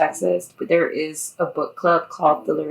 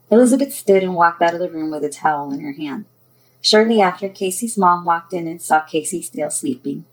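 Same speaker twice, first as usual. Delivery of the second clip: louder, projected storytelling voice; story narration; 7 dB louder than usual. A narrator's reading. Author tells of two girls waking, story narration. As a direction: read it out clearly as a storyteller.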